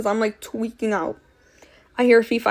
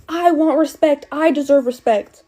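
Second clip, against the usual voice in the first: mock yell, higher and drawn out; imitated scream; 4 semitones higher, 4 dB louder than usual. Mom screaming at her daughter mid-argument, mock yell. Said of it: "starts full-on bloody screaming".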